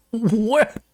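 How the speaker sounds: high, incredulous "What?"; stunned disbelief. Retold or imitated. Hearing an apology he never expected, stunned. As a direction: blurt it out in shock.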